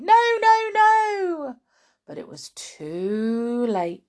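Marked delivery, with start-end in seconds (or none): 0.0-1.6 high, loud, run-together pleas; frantic repeated cry; horrified cry. Acted. Mother and son try to stop Grandma drinking, frantic. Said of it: "the other two cried".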